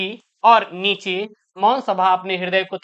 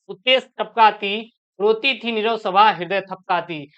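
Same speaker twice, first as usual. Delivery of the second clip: poem recitation; 2 semitones higher than usual. Acted. Teacher reading Kaikeyi's verse to students, poem recitation. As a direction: recite it line by line, stretching some words.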